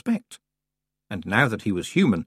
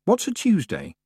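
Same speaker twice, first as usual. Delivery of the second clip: puzzled, voice jumping high; drowsy confusion, pitched way up; confused, high; 11 semitones higher than usual. Acted. Dazed Tiffany waking confused.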